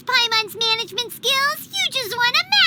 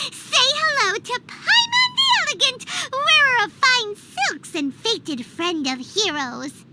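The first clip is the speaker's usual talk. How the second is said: grand self-announcement. Acted. Paimon introducing herself as Paimon the Elegant, grandly. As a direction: proclaim it like a herald.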